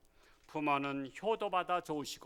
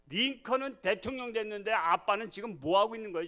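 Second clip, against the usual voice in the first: mock angry son; 5 semitones higher than usual. Shown as a demonstration. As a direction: replay the son's challenge with heat. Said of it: "자녀를 노엽게 하면 그래요". (아들의 화난 말투 재연)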